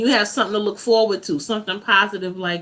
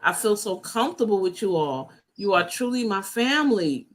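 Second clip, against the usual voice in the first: reading with a catch in the voice; touched, voice wavering slightly; steady voice with shaky moments. Real, not acted. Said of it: "I'm a little emotional".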